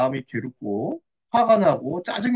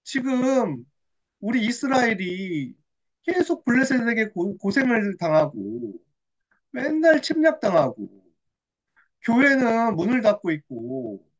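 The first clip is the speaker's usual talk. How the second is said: dawning realization. Acted. Hannah grasps Israel's plight before God, dawning realization. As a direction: pray as understanding sinks in. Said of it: "한나에게 하나님이 깨달음을 주셨어요".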